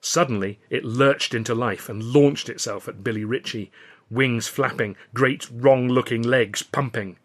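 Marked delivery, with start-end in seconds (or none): none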